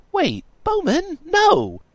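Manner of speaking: very high, loud protest; high-pitched drawn-out "no"; insistent plea. A narrator's reading. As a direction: plead slowly in a high girl voice. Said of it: "Miranda insisted".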